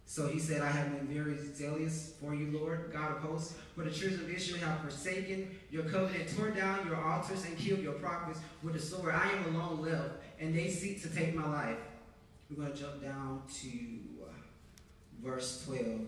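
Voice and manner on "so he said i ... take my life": firm, full-voiced Bible reading; scripture reading. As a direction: read the passage out with weight. Reads scripture aloud to the congregation.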